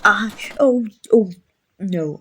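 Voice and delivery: whispered oh no; startled whisper. Acted. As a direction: gasp it out under the breath. Wings knock things over.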